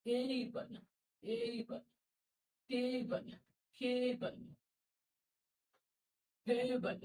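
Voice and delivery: "টেবল" with a gliding ei vowel; "এই" diphthong. Shown as a demonstration. Teacher modelling diphthong words, gliding ei in "টেবল". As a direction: glide fully from e to i in "এইবল", "কেবল". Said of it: "ই আই এর diphthong sound".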